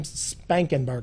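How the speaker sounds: SPANKENBERGER with a clear K; drawn-out "Spankenberger" with the K sounded; mispronounced name. Shown as a demonstration. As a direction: say "Spankenberger", K instead of G. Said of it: "there's no K".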